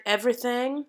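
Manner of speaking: everything with its last vowel opened toward ah; I switched to ah. Shown as a demonstration. Coach demonstrating an exception word in the accent, opened vowel. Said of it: "it switches to an ah".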